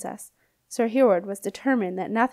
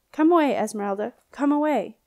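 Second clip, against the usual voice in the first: wailing ghost; 3 semitones higher, 3 dB louder than usual. Acted. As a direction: call her back with a thin ghostly wail. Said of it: "wailed the ghost".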